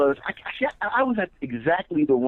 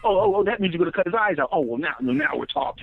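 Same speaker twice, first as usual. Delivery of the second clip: mock relieved understanding. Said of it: "then it was like".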